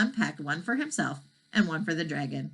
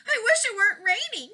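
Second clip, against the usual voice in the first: panting; 4 dB louder than usual. Acted. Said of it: "panted the dragon".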